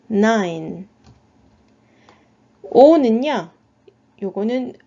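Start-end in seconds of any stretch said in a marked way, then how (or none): 0.1-0.9 "nine." with a long eye sound, final E silent. Shown as a demonstration. Teacher repeating the word for phonics learners, long I and silent E. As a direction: model "nine." clearly as one syllable. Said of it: "자, 발음은".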